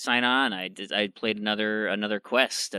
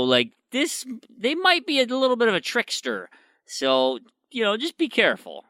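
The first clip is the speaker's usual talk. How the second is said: lightly voiced maiden, lines lifted higher; a hint of a polite, wary maiden warning; maiden's voice; 6 semitones higher than usual. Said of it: "and she goes".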